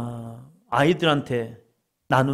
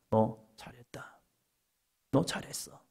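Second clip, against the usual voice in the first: tender whisper; 8 dB quieter than usual. Pretend. The Lord whispering comfort in the walk home. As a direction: breathe it like God speaking inside. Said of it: "주님이 말씀할 겁니다".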